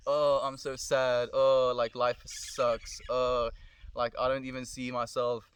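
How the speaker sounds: whiny sad voice, mocking; sulky moaning imitation; mock self-pity.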